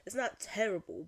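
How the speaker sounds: amateur attempt at an English accent; lightly put-on English accent. Shown as a demonstration. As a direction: try out a British English accent. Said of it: "I want to improve my English accent".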